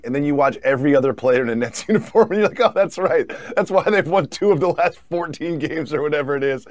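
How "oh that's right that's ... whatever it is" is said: laughing sarcasm. Retold or imitated. Fan disappointed by other Nets.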